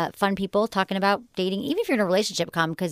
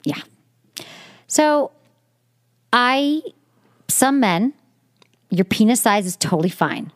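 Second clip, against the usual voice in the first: louder, upbeat sponsor read; 4 dB louder than usual. Acted. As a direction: sell it like a host-read ad.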